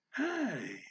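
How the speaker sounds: hi jumping high, then falling. Shown as a demonstration. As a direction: shoot hi up top and let it fall. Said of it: "kinda high".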